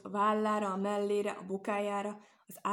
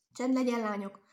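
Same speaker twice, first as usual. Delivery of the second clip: smiling but firm; 3 semitones higher, 5 dB louder than usual. A narrator's reading. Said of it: "mosolyogva, de határozottan".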